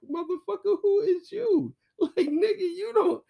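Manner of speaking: high, loud indignant woman's voice; imitating bestie. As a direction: squeal it back at him, outraged. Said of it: "from her point of view".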